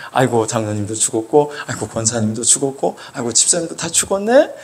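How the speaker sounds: low, subdued roll call of the dead; tally each loss in a low voice; mock lament. Preacher lists church elders who seem dead, mock lament.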